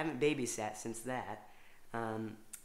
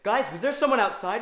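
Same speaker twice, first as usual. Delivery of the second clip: mock innocent; 9 semitones higher, 13 dB louder than usual. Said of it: "I'd be like".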